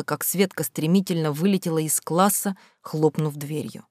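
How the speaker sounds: ordinary delivery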